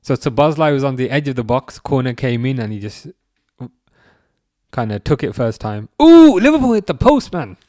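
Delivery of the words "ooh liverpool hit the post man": Geordie accent on an excited yell; a quick Newcastle twang as the ball hits the post; a shouted Geordie exclamation. Real, not acted. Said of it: "I went kinda Geordie there".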